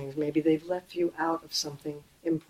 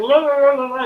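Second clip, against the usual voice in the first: louder mock ranting babble; mock freeway yelling; 6 semitones higher, 10 dB louder than usual. Driver yelling at another car on the freeway, mock rant. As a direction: rant wordlessly at the other driver. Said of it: "yelling at someone while you're on the freeway".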